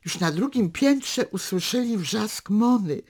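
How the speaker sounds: measured literary reading, unhurried; story narration. A narrator's reading. Reader narrating a daughter and father's walk, calm storytelling. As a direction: read the novel excerpt to listeners. Reads a novel excerpt aloud.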